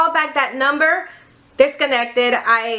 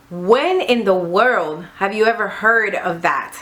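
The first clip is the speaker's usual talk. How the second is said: put-on boyfriend incredulous; 4 semitones lower than usual. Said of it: "And then he goes".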